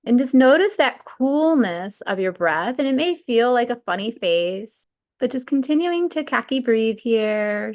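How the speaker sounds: unhurried breathwork guide, long pauses between cues; guided meditation. Real, not acted. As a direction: lead them through the breath, stretching key words.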